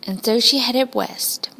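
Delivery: hushed narration full of homesickness; whispered longing. A narrator's reading. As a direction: whisper it like a secret ache.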